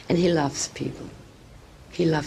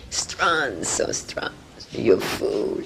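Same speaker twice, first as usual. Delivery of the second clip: ordinary talk, nothing marked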